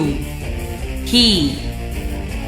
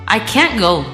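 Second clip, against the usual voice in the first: connected, quicker sentence; said quickly. Shown as a demonstration. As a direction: run the words together.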